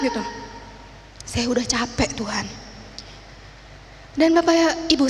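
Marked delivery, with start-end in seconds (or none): 1.2-2.5 soft, drained retold plea; quiet, tired confession to God; weary prayer. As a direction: let the voice sink, giving up. Retold worn-out prayer after outburst.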